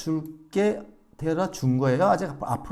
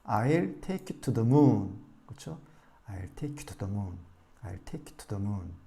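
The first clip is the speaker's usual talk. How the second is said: I'll take you to the moon, slow, take and moon long; slow model read; stress on take and moon; 3 semitones lower, much slower than usual. Shown as a demonstration. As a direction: skim to the, lean on moon. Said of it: "달까지".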